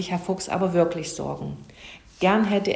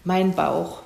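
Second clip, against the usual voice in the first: mildly hammed-up moaning about pain; play-acted whimpering complaint; theatrical wailing; slower than usual. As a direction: feign a bellyache, complaining in broken phrases. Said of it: "und jammerte".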